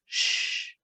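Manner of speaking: breathy hush, all air and no voice; shushing. Retold or imitated. Telling the anxious inner roommate to hush, whispered shush. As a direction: hush the nagging roommate in your head. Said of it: "telling her".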